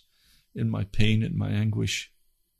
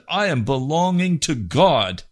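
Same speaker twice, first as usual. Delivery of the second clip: raised, fervent avowal; fervent declaration; 6 semitones higher, 4 dB louder than usual. Retold or imitated. Man surrendering his pride to God, fervent. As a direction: declare it higher, with conviction.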